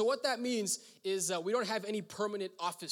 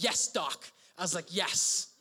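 cheering; 5 dB louder, slower than usual. Retold or imitated.

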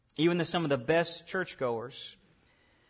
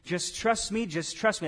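soft, slow, reassuring; calm the panicking swimmer down; a hint of a rescuer's soothing voice; gentle reassurance; 3 dB quieter than usual. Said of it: "he's saying".

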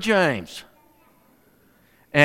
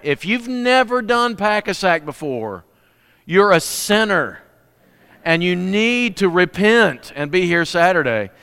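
mock scolding; 3 semitones higher, slower than usual. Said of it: "Uh, not really".

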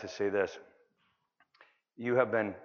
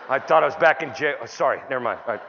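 mock flustered apology; 7 dB louder than usual. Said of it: "I go".

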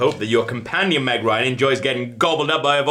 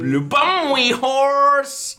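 very high, slow squeak; squeaky silly voice; 14 semitones higher, much slower than usual. Acted. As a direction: squeak it out slowly.

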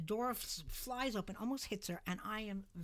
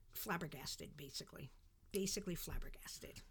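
hushed amazement; 4 semitones lower, 7 dB quieter than usual. Real, not acted. Stunned recalling first encounter.

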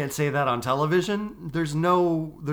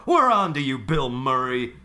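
wrestling promo; 3 semitones higher, 4 dB louder than usual. Pretend. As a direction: hype it up like a wrestler calling someone out. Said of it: "we just cut a wrestling promo".

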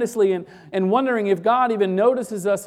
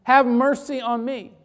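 raised, higher-pitched plea; crying out; 5 semitones higher, 4 dB louder than usual. Retold or imitated. Blind beggar calling to Jesus from the roadside, crying out. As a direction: call out for mercy, pitched up. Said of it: "he cries out to Jesus".

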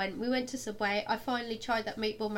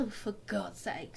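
exasperated mutter; 6 dB quieter than usual. Retold or imitated. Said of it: "I was like".

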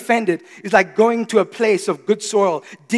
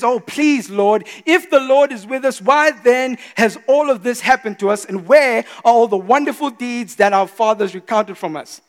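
complaining tone; 3 semitones higher, 4 dB louder than usual. Retold or imitated. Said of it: "Can you hear the tone?".

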